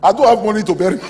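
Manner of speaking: high, loud mock wail; retold grieving woman. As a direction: imitate a woman wailing her real worry. Acts out crying woman's lament.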